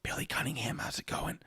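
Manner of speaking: hushed whisper greeting. Acted. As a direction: breathe the hello in a whisper.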